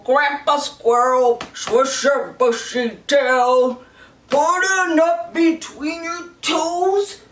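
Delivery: lightly voiced old grandpa; a hint of an old grandpa singing. Shown as a demonstration. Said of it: "Do your very best grandpa voice".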